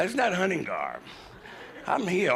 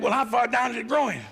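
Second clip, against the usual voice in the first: curious doctor; 8 semitones higher than usual. Retold or imitated. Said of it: "doctor said".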